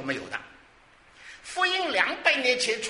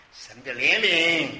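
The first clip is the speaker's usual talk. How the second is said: loud, slow declaration; emphatic proclamation; 7 dB louder, slower than usual. Real, not acted. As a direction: proclaim it slowly at full voice. Preacher answers own question, then repeats. (响亮而缓慢地宣告)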